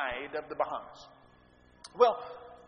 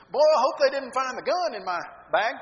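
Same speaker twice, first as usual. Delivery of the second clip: higher and louder, joking tone; sarcastic joke; 6 semitones higher, 9 dB louder than usual. Retold or imitated. Teen jokes to the security guard, sarcastic and loud. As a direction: toss it off as an obvious joke. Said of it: "come across kind of sarcastic".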